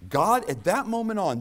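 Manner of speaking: a loud, high cry to open the line; sudden shout. Acted. Preacher crying out to the congregation, loud and high. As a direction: burst out high and loud on God.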